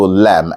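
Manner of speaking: "lamb" said as "lam"; silent b. Shown as a demonstration. Teacher modelling the word, "lamb" with silent b. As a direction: end "lamb" on m with no b. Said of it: "the B is silent".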